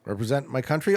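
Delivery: ordinary talk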